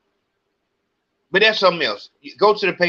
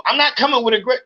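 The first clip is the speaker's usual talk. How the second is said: mocking the clerk; 8 semitones higher, much faster than usual. The clerk's retort, mimicked again.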